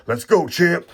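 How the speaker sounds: high, loud cheer for the champ. Real, not acted. Pulling Shannon Briggs, he cheers the champ loudly. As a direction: hype up the card like a fan.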